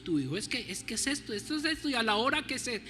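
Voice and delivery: rising, pushy mock demand to God; demanding prayer. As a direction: play a spoiled child bargaining with God. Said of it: "decirle al Señor". (oración exigente y caprichosa, en burla)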